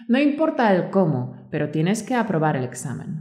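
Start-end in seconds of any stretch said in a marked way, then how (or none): none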